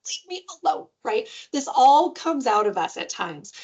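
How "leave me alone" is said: mock yell. Anyone fed up and yelling for space, mildly acted. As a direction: imitate yelling with the pitch raised. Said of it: "We all yell about things like".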